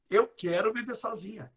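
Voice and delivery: quietly, as the brain hears it. Shown as a demonstration. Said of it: "Você corta o não". (mais baixo, sem o não)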